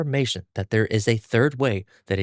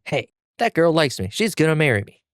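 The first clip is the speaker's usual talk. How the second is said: higher, whiny upset protest; upset whine; 7 semitones higher than usual. Acted. Zenitsu upset at Tanjiro over the girl, higher whiny protest. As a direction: whine that she's yours. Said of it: "we get Zenitsu upset".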